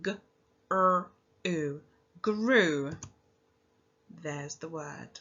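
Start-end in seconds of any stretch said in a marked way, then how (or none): 0.0-2.9 segmenting each sound, then blending. Shown as a demonstration. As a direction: pinch out G, R, U slowly then say grew. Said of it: "Now pinch your sounds".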